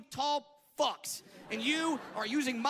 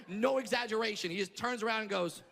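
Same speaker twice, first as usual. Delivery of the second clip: ordinary delivery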